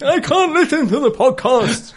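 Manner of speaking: muffled, with the mic in the mouth; microphone in mouth. Acted. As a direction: talk with the mic jammed in your mouth. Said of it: "cramming a microphone into their mouth".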